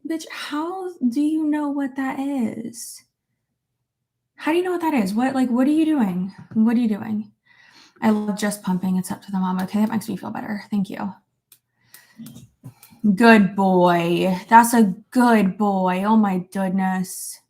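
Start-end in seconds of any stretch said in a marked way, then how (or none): 0.1-7.3 retold incredulous look. Woman retelling her reaction to partner's question, mock incredulous. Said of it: "I just looked at him like". 13.2-17.4 slow, drawn-out pet talk; doting dog praise. Real, not acted. Owner praising her dog, slow and doting.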